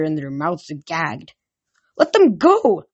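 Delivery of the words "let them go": high, loud demand; yelling. A narrator's reading. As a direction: yell it as an urgent order. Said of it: "I yelled".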